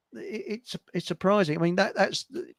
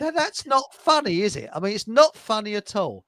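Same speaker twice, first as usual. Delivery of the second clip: higher-pitched imitated Rhodesian accent; 4 semitones higher than usual. Bloke insisting he isn't funny, imitated Rhodesian accent. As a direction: object in a put-on Rhodesian accent. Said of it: "he spagged like this".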